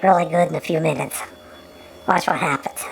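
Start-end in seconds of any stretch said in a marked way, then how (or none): 2.1-2.8 hushed teasing whisper; conspiratorial whisper. Pretend. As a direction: whisper it like a secret about to happen. Teasing whisper about the film.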